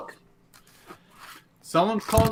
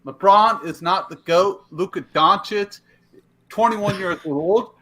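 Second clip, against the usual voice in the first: frat bro; 3 semitones higher, slower than usual. Real, not acted. Hyped sports rant, frat bro.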